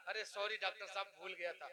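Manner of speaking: low, meek mock apology; lightly acted sheepish sorry; retold apology. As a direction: play the patient apologising, voice dropped. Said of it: "sorry बोल रहा है".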